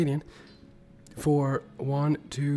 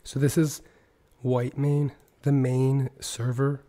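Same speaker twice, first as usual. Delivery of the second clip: hoarse, half-whispered sick voice; lost voice. Real, not acted. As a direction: talk through a sore throat with little voice. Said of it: "I'm sick and I've lost my voice".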